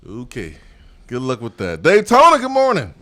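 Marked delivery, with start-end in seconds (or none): 1.8-2.9 radio greeting. Real, not acted. Host greets caller on air.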